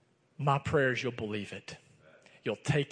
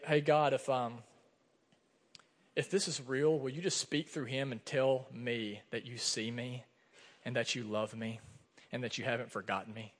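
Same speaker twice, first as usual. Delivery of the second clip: hushed prayer; 3 semitones lower, 7 dB quieter than usual. Retold or imitated. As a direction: murmur it like a private plea to God. Silent prayer during the session.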